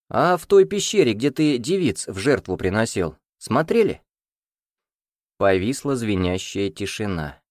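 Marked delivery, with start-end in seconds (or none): 0.1-4.0 higher, sharp accusing question; spring the trap on him; pointed accusation. Acted. (обвиняющий вопрос)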